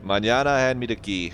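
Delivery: Mañana and the key line in a bad put-on French accent. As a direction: ham up a terrible French accent. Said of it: "terrible French accent in me".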